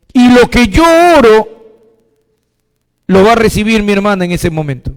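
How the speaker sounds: fervent prayer with "somos fuertes" slowed and stretched; demo intercession prayer. Shown as a demonstration. Pastor showing the church how he intercedes for a sister, in fervent prayer. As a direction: call on the Father with rising fervour. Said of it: "Yo le digo".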